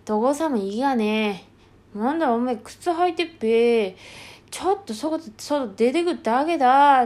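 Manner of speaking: slow, drawn-out rural dialect reply; acted rural Japanese dialect. Young man brushing off questions about going out, drawling rural dialect. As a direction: stretch the phrase ends in country dialect.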